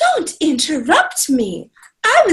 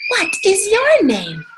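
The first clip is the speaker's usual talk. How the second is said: modelled question; 4 semitones higher than usual. Shown as a demonstration. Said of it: "Alisa, say".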